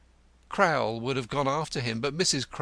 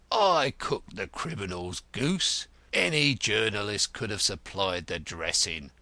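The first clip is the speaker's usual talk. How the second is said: gruff Grodman. Acted.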